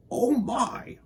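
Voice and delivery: high dismayed oh my; fussed Mister Winky. Acted. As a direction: sound put out. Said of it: "said Mister Winky".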